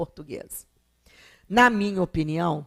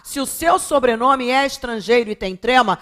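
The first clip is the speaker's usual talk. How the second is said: loud, high, hammering each point; raised-voice emphatic teacher's plea; exasperated insistence; 4 semitones higher, 8 dB louder than usual. Real, not acted. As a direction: drive it home to careless students, syllables punched out. Emphatic plea after "pelo amor de Deus.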